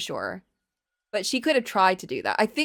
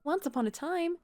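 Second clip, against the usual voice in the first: calm storybook narration; story narration. A narrator's reading. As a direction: read it like a fairy tale. Reads the game's story.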